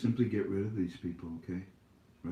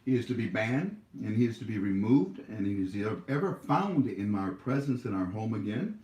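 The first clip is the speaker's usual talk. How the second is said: formal decree. Real, not acted. Banning a commenter formally.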